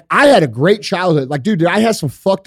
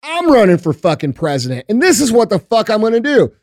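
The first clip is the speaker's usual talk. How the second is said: higher, fiery stump-speech rant, building to a shout; mock campaign speech; 4 semitones higher than usual. Imagined candidate promising brutal justice, higher, shouting rally voice. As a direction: play a hardline candidate firing up a crowd. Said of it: "someone like me will come along and say".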